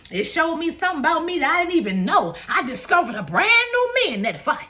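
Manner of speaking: rousing preacher pushing each phrase upward; call-and-response preaching. Real, not acted. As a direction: urge the congregation to testify.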